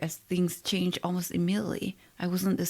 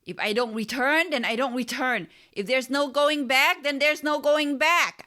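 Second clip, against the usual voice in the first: higher and louder, rising with excitement; pumped shout; 8 semitones higher, 5 dB louder than usual. A narrator's reading. Narrator shouts back at Shiva, pumped up. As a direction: fling the words back, fired up. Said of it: "I shouted, a bit pumped".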